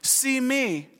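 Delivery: put-on high, soft toddler voice; Kennedy. Dad recalling his daughter on home videos, in a little high voice. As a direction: imitate a two-year-old's small plea. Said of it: "when Kennedy is saying".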